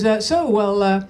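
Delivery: low, lightly voiced sleazy husband; a hint of a smarmy seducer, sinking low; sleazy chat-up. Husband chatting up his wife in the pub, lightly voiced and smarmy. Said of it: "he goes".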